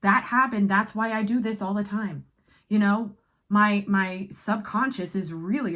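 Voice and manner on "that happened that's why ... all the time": louder, higher, wide-eyed realization; inner child voice. Retold or imitated. Voicing the viewer's inner child, realizing the old pattern, higher and louder. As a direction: voice the inner child suddenly understanding. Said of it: "My inner child is like".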